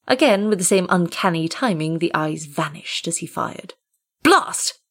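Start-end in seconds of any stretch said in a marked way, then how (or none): 4.2-4.8 put-on an old man swears as his shot misses; shouted oath. A narrator's reading. Furious shout at missing the shot. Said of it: "he shouted".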